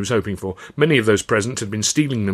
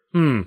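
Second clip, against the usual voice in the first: displeased grunt; 5 semitones higher than usual. Acted. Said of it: "the governor grunted".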